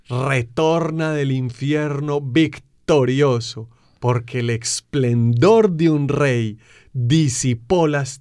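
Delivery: fervent Easter preaching, slow and swelling. Acted. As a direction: proclaim each victory slowly, rising in force.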